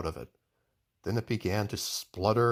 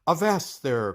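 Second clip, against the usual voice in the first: louder, higher sailor's call; admiral's cry; 5 semitones higher, 4 dB louder than usual. Acted. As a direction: bellow it like an old sea admiral. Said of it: "cried the Admiral".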